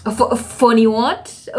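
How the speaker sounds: slow, stammering, incredulous what; stunned disbelief. Retold or imitated. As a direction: caught off guard, disbelieving. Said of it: "And I was like".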